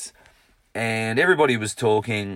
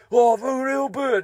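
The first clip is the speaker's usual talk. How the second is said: player protesting; 6 dB louder, slower than usual. Retold or imitated.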